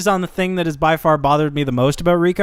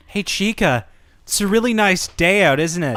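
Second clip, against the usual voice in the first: mock-menacing friendly small talk; super menacing; 2 semitones higher than usual. Character sweetly cornering Chica about the weather, mock menacing. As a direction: imitate a menacing greeting, lightly hammed up. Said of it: "super menacing".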